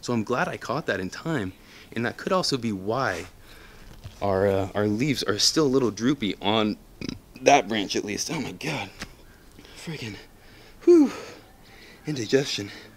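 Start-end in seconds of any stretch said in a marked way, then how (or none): 8.3-12.7 out of breath, higher pitch. Wrapping up a plant update video for viewers, out of breath. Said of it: "I'm out of breath".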